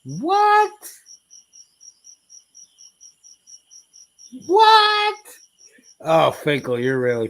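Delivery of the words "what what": incredulous what. Real, not acted. Incredulous at absurd excuse.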